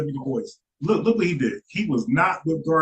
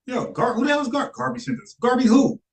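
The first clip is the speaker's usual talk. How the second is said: high, incredulous mock official voice; mock Liberian official; 8 semitones higher than usual. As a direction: ask it pitched up high, like a baffled official. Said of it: "so he like".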